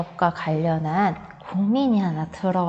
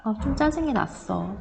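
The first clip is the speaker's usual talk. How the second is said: calm statement; 6 dB quieter than usual. Shown as a demonstration. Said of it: "그로 인해서 내가 느낀 감정이나 생각".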